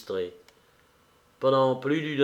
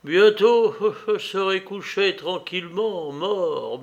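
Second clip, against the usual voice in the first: high opening with a short bitter laugh; irritated irony; 6 semitones higher than usual. A narrator's reading. Dying man answering advice to lie down, irritated irony. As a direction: start sharp, then drop onto the last word. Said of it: "avec une espèce d'ironie irritée".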